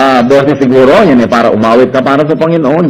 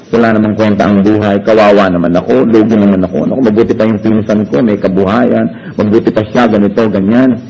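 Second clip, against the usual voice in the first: a hint of a sorry-for-myself whine; mock self-pity; 7 semitones lower than usual. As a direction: sulk it out like someone feeling sorry for themselves. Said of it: "nade-depress kayo".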